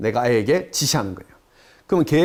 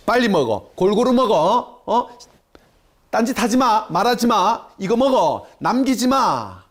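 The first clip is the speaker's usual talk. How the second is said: mock nagging; 3 semitones higher than usual. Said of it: "이런 잔소리".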